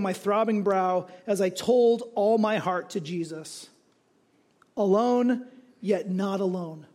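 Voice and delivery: slow, measured reading of a testimony; lightly dramatic recitation; solemn testimony reading. Acted. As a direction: read it slowly and deliberately, drawing out the phrases. Reads a friend's written testimony aloud.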